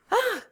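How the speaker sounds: short, very high-pitched "ah"; frightened cry. A narrator's reading. Cantinière hears the whistle below her, frightened cry. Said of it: "cria la cantinière".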